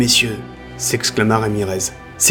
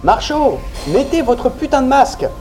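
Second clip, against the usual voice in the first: ordre crié, voix haute; le lieutenant ordonne à Marchaud, furieux; 14 semitones higher than usual. Acted. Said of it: "lui ordonna Ramirez". (crie l'ordre avec colère)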